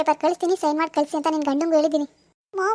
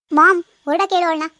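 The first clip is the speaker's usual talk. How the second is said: angry shout; 6 dB louder than usual. Acted. Demands mom send her away.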